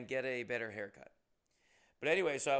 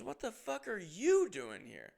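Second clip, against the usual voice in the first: higher and slower, friend echoing the same shock; surprised echo; 8 semitones higher, 3 dB louder, slower than usual. Retold or imitated. Friend echoing the comic's stunned question, pitched higher. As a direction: throw the question straight back, even more amazed. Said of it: "He goes".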